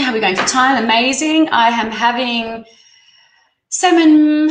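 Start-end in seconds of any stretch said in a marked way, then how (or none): 3.7-4.5 higher, louder, eager reveal; excited about dinner. Real, not acted. Reader telling viewers her dinner, thrilled. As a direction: announce it like a treat.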